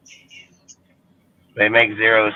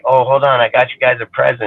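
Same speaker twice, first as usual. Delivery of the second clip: mock friendly; 4 semitones higher, 4 dB louder than usual. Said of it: "I'm gonna be like".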